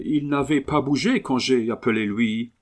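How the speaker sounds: puzzled Englishman's broken French; English accent. Acted. Englishman puzzled that the dog ignores him, English accent. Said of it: "l'accent anglais".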